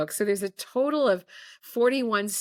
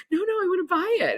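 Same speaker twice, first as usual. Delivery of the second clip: retold insistence; 12 semitones higher, faster than usual. Retold man insisting on buying.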